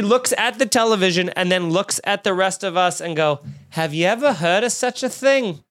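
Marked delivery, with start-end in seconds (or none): 3.7-5.6 lightly voiced elderly smoker; a hint of an astonished old woman; old diner woman. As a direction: imitate a diner lady's catchphrase. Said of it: "She has smoked every cigarette ever created".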